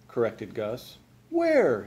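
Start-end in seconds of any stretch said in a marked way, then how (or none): 1.3-1.9 high-pitched demanding yell. A narrator's reading. Mister Frizzle demands the baby from Gus, high yell. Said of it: "yelled Mister Frizzle".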